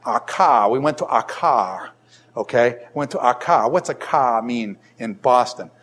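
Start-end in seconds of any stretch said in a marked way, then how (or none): 0.1-1.9 Boston accent with the r dropped, "Aka" said as "ah-kah". Shown as a demonstration. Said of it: "If I said to you in Bostonian English". 2.9-3.7 Boston accent with no r at the end, "Aka" said as "ah-kah". Shown as a demonstration. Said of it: "If I said to you in Bostonian English".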